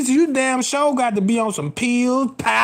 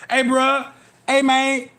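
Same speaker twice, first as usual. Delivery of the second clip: fake busy coworker; 5 semitones higher than usual. Fake coworkers yelling orders so she hears, higher. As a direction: act out the busy kitchen.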